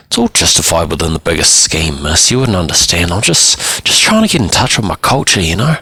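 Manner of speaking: lightly voiced boy, pitch lifting as he protests; defensive teenage client. Boy explains his culture to the counsellor, defensive. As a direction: plead a misunderstood boy's case.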